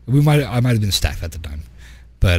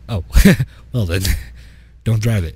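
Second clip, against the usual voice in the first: laughing. Retold or imitated. Mocking player who lost truck.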